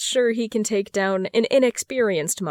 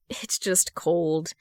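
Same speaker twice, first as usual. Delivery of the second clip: insisting; 2 semitones lower, 3 dB quieter, much slower than usual. Acted. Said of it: "he insists".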